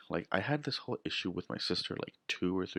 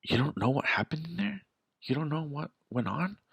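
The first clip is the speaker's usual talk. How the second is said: own indignant retort; 8 semitones higher than usual. Retold or imitated. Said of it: "And I'm just like".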